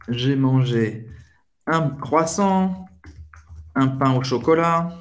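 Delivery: slow, drawn-out listing; slow example. Shown as a demonstration. Teacher to students, slowly listing foods before bref. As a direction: lay out each item slowly. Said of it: "Bref, por exemplo".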